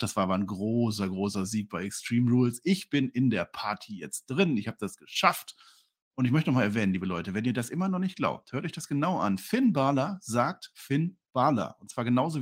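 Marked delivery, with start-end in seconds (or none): 0.0-5.6 quoted wrestler. Retold or imitated. 9.4-10.2 "Balor" with an open A, BAH-la, slowly; correct name pronunciation. Shown as a demonstration. Host demonstrates the wrestler's own name, "Balor" as BAH-la. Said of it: "wie ich das ausspreche".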